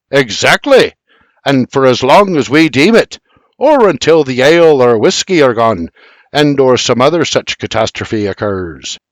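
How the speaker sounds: a gleeful brogue, lightly voiced; Scottish brogue. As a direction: gloat in his burr. Scot gloats in brogue.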